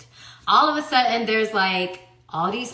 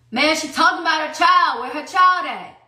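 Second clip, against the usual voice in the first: higher, louder mock of the trainer; a touch of a scoffing trainer imitated; 5 semitones higher, 6 dB louder than usual. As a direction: lightly send up his scoffing reply, higher and louder. Mocking the trainer's reply.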